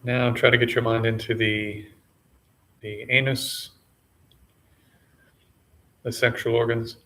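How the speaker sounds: sparse, measured meditation cues with long pauses; name each body part calmly, then leave silence; unhurried meditation guide, slightly subdued; guided body scan. Real, not acted.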